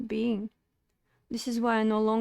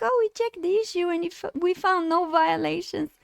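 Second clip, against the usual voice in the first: mock Twitch reply; 5 semitones higher than usual. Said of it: "they're like".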